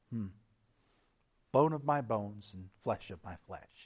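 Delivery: soft, low murmur of tender wonder; gentle, quiet. Acted. Adam looking at Eve, as often read, gently and quietly. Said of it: "very gently and quietly saying".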